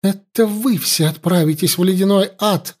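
гневный выкрик, с нажимом на «вы»; бросает проклятие в лицо врагу; крик. Acted. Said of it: "закричала Юна". (вскочив, кричит на жрицу)

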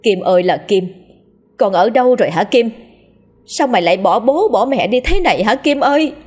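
lightly acted weeping call; wailing lament. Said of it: "bà Chỉ bù lu bù loa".

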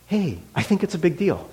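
softly spoken, gentle reassurance. Retold or imitated. Pastor to crying young woman, hand on shoulder, very gentle. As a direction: say it softly, as if comforting someone. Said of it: "just very gently".

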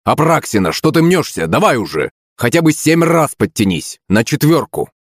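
high-pitched, insistent scolding; stern coach. A narrator's reading. Teacher warning then hurrying a pupil, insistent.

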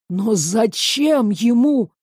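ordinary delivery

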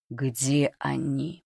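very slow, cold pressing question; through clenched teeth. Acted. Boy interrogates the cook about supplies, cold and slow. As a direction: squeeze the words out, threatening. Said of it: "процедил Приютский".

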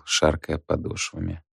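plain reading voice

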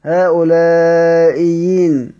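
هؤلاء ين with the hamza turned into a clear ya, drawn out; tajweed demo of ibdal to ya; pure ya. Shown as a demonstration. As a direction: recite هؤلاء ين slowly, a pure ya in place of the hamza. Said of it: "يبدأ لها بياء خالصة".

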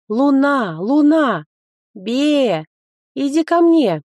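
loud call to a pet. Acted. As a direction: call her in from afar. Calling the pet loudly.

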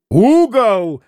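high, excited call; shouted bet. A narrator's reading. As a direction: call it out sharply, pitch jumping. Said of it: "крикнул Митя". (азартный выкрик)

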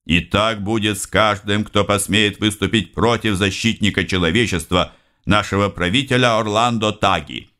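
lightly voiced solemn announcer; news announcer. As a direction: proclaim it like state news. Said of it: "голос диктора".

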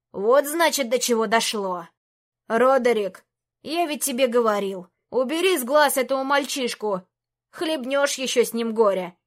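a lightly voiced cranky old wizard; grumpy old mage. Old mage Shozu scolds the king, cranky.

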